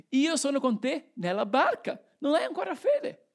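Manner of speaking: mild challenge, pitch climbing high to the end; challenging. Acted. Jesus challenging the disciples in the boat, insistent. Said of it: "E ora Gesù che li sfida".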